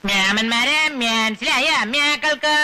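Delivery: Namboothiri dialect, അമ്മയാക്കൾക്ക് with a rising end. Acted. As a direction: ask in Namboothiri speech, അമ്മയാക്കൾക്ക് drawn out. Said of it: "നമ്പൂരി ഭാഷ ചോദിക്കണം".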